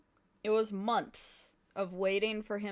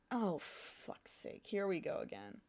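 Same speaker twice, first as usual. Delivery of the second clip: exasperated mutter; 3 semitones lower, 11 dB quieter than usual. Real, not acted. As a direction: sigh it out under the breath. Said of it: "game froze again".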